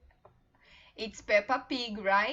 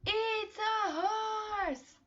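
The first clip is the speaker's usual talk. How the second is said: much higher, slow and bright exclamation; excited model answer; 9 semitones higher, much slower than usual. Shown as a demonstration. Teacher revealing the horse to young learners. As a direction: announce it for kids to echo.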